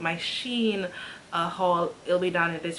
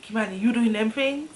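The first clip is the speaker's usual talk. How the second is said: imitating dad's serious question, a bit louder; dad asking; 3 semitones higher, 3 dB louder than usual. Father questions his daughter, mock stern. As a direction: redo the father's line with more weight. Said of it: "My father is literally like".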